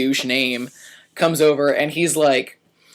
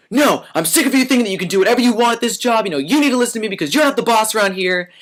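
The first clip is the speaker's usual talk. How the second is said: fast, higher, heated scolding; angry boss; 5 semitones higher, faster than usual. Retold or imitated. Boss scolding the waiter who ignored him, fast and angry. Boss yelling, grabbing my hand.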